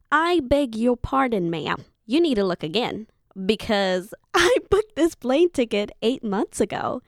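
retold exasperated demand at the second desk; indignant. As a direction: put the agent firmly in their place. Confronting the airline agent again.

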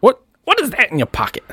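high, accusing question; suspicious demand. Acted. Doctor Paul questioning the boy about his pocket, high suspicious demand. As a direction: pounce on the suspect.

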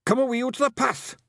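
high-pitched urgent pixie warning; high, urgent character voice; urgent hiss. A narrator's reading. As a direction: warn them off in a high, strained voice. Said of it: "hissed Rob Anybody".

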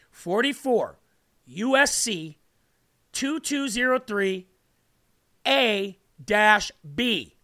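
slow, deliberate reading of the code; said slowly. Shown as a demonstration. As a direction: spell out each part slowly so it sinks in. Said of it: "Let me say it slow".

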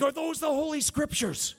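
high, loud imitated holler; excited stranger's high yell, acted out; excited shout. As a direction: call it out in mock amazement. Retelling stranger's excited question.

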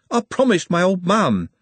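high, insistent protest; Trev. A narrator's reading. Trev repeats his promise to Glenda, high and insistent. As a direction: dig in, pitched well up.

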